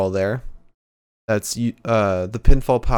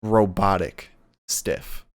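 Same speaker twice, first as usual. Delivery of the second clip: slow stiff robot voice; stiff, mechanical delivery; robotic voice; 3 semitones lower, much slower than usual. Retold or imitated. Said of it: "He's, like".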